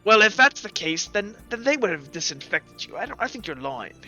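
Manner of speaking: a touch of suspicion, in character; lightly voiced doubting gambler. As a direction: lightly play a sceptical dice player. Gambler doubts the player's story.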